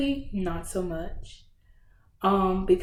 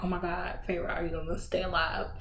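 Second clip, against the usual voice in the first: softer, hushed worry, close to crying; worried, near tears; 6 dB quieter, faster than usual. Retold or imitated. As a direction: ask it like you're scared she'll die. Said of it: "I'm about to cry".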